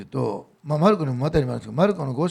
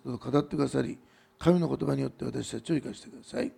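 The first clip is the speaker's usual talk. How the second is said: understated spoken prayer; 2 semitones lower than usual. Real, not acted. (落ち着いた祈りの声)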